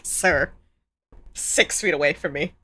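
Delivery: mock threat through laughter; laughing warning. Streamer laughing, warning the ad guy. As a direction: warn him off while laughing. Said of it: "I'm like".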